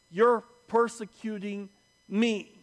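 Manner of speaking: emphatic, weighted accusation; deliberate, pointed rebuke; Jesus confronting Paul. Acted. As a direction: press hard on the final word. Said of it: "And then he says".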